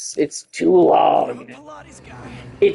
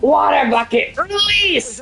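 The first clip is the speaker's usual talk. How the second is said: movie quote; 9 semitones higher than usual. Retold or imitated. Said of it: "Minecraft movie quote?".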